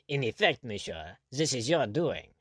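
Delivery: a touch of timid hesitation, slowing; hesitant governor, slowed and unsure. Acted. Governor nervously blaming Blood before the general, timidly. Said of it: "was beginning timidly".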